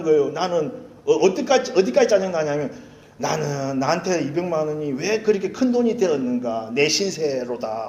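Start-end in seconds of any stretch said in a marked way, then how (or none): 3.2-7.9 self-pitying lament. Retold or imitated. Pastor lamenting the fine in archaic style, hammed-up self-pity. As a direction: sigh over your fate like an old tragedy. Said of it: "신세 한탄을 하면서".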